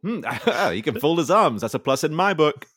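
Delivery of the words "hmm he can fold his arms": chuckling through the words; a laugh breaking into the line. Real, not acted. Host laughs mid-line.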